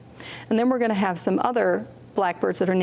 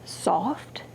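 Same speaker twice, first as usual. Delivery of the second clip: whispered; 2 semitones lower, 5 dB quieter than usual. Shown as a demonstration. Teacher showing children what soft sounds like, whispered. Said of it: "what if our blackbirds were named".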